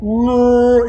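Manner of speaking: loud, high flat refusal; brother's loud alarmed "No"; sharp no. Retold or imitated. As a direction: snap it loud and high to stop him. Brother cuts him off.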